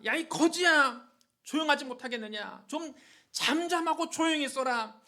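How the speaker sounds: acted sharp rebuke, loud opening; scolding. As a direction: scold a beggar into silence. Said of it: "그를 꾸짖었습니다". (꾸짖는 호통 연기)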